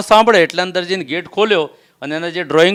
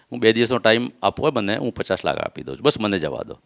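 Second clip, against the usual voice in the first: retold plea; 7 semitones lower, 6 dB quieter than usual. Begging the gunman for mercy.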